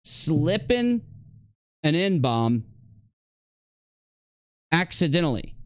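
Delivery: scoffing at each word; mocking repeat. Real, not acted. Mocking the streamer's claim of an accident, scornful. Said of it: "It wasn't an accident".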